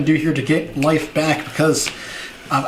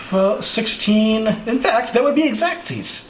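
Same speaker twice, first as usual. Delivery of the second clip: gleeful; 6 semitones higher, slower than usual. Real, not acted. Delighted at exact lethal count.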